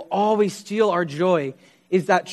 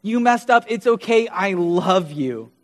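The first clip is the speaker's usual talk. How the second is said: forgive them, slowing on the last words; reassuring father. Retold or imitated. A father to his child who messed up, reassuring. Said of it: "He is a father who says".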